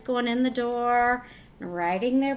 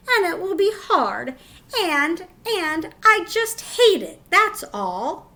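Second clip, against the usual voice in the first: tearful complaint; 6 semitones higher, 4 dB louder than usual. A narrator's reading. Upset child refusing school.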